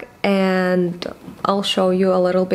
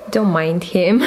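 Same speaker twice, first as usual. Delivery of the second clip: whisper; 3 semitones lower than usual. Real, not acted. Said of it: "whisper aside".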